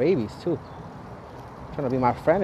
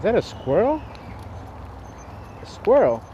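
excited; 9 semitones higher than usual. Real, not acted. Spots a squirrel.

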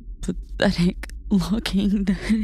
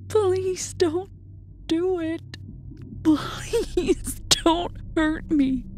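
high, trembling plea through tears; pleading sob; 9 semitones higher, slower than usual. A narrator's reading. Doppelganger begging the narrator, high and tearful. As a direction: beg not to be hurt, near tears. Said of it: "they sobbed".

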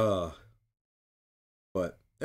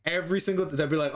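usual speaking voice

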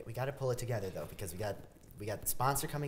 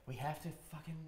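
exasperated yell; 3 semitones higher, 5 dB louder than usual. Acted. Producer snaps, rushing a retake.

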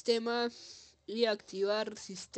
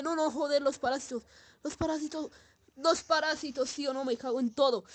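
panicked shout; 5 semitones higher, 3 dB louder than usual. Real, not acted. Sudden panic at parasites.

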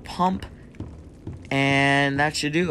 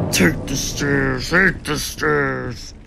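slow, heavy mock Hulk; much slower than usual. Player hamming up Hulk on the stairs, slow mock Hulk. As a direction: drag it out like a lumbering brute. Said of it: "I'm like Hulk".

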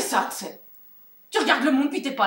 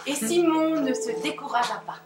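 narration. A narrator's reading. Narration du conte.

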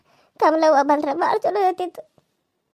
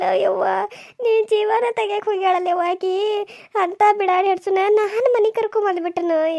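wailing lament. Acted. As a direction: wail the grievance in long, trailing phrases. Laments son and daughter-in-law's cruelty. (ಅಯ್ಯೋ ಎಂದು ಗೋಳಾಡುವ ಅಳುಧ್ವನಿ)

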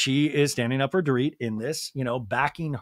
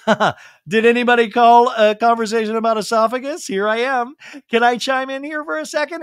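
high, perky mock voice; hammed-up chiming in, pitched high; Anna Marie; 7 semitones higher, 6 dB louder than usual. Anna Marie butts into the conversation, high mock-eager voice. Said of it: "And Anna Marie now, though, raises her hand".

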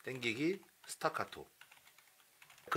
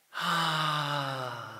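gentle voiced sigh; 6 dB quieter, much slower than usual. Shown as a demonstration. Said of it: "깊게 내보내는 호흡에 성대를 살짝만 얹어서".

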